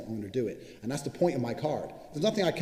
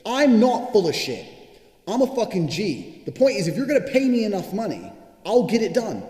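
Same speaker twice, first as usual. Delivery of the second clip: defiant shout; 9 semitones higher, 9 dB louder than usual. Real, not acted. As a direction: bellow it like nobody can doubt you. Defiant rant about his card.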